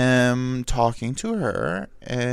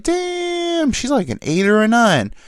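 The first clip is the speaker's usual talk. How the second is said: long, high drawn-out exclamation easing down; hammed-up high admiration; mock impressed; 12 semitones higher, slower than usual. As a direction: act wowed, voice shooting way up. Imagined reaction to a filtered photo.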